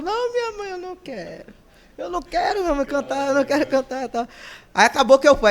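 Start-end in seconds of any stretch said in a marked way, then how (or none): 0.0-4.3 put-on higher, pleading child's voice, refusing; a little boy begging not to sing; whiny child refusal. (menino choramingando que não quer cantar)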